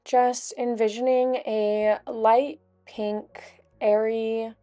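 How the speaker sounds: calm, unhurried guided meditation voice. Acted. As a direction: gently guide them through each breath, with long pauses.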